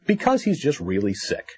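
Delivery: ordinary talk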